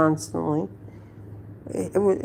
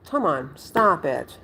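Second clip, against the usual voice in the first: calling the dog; 5 semitones higher, 3 dB louder, much slower than usual. Real, not acted. To her dog Susie, a loud call fading to a slow plea. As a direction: shout her name, then ease off into a tired plea.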